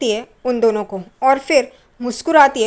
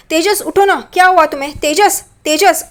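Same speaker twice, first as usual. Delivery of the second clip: worried calling; 4 semitones higher than usual. Retold or imitated. Shaking the fainted Tejas.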